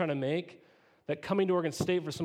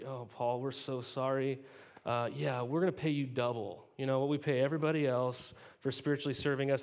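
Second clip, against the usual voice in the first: mock apologetic church; 4 semitones lower than usual. The Corinthians groveling back to Paul, mock sorry. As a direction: sheepishly make it up to him. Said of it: "they're like".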